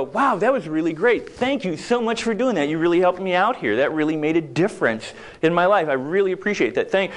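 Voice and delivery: gushing, sincere gratitude; effusive heartfelt thanks. Shown as a demonstration. To the helper, a sincere grateful thank you. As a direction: pour out real thanks. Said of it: "don't stop and think and go".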